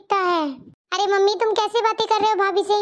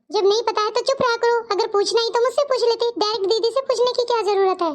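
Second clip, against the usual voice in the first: raised-pitch telling-off without shouting; mild scolding. Acted. Elder sister tells off younger one for rudeness, scolding. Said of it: "क्यों डांट रहे हो".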